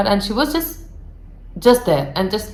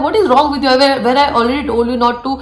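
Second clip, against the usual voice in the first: angry scolding. Retold or imitated. Neha scolds Priya for knocking on the door, mildly raised. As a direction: tell her off for knocking again. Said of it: "very furious".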